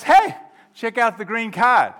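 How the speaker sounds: loud, high call to a friend. Acted. Brett showing his friend a card, loud call. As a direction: holler to get his attention. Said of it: "and Brett goes".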